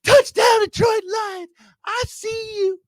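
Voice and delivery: Dan Miller impression. Lions fan doing the radio call of a touchdown, excited shouting. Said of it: "That's my Dan Miller impression".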